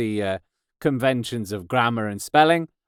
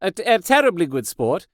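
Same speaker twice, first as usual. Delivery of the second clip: mock-aristocratic English, a little higher; aristocrat accent; 4 semitones higher than usual. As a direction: echo yourself as a would-be aristocrat. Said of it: "Am I a aristocrat now?".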